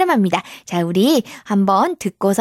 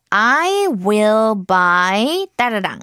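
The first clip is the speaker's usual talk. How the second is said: slow model sentence; much slower than usual. Shown as a demonstration. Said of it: "이렇게 얘기를 했죠".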